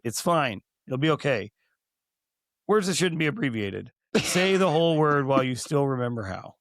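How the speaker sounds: earnest announcer read turning conspiratorial; deadpan sponsor spot, creeping unease; mock PSA read. Sponsor public service announcement read.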